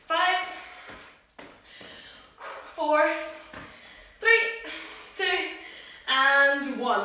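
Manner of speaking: pumped-up trainer counting down reps; shouted countdown. Real, not acted. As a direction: call the count to push the class. Coach counting down the set.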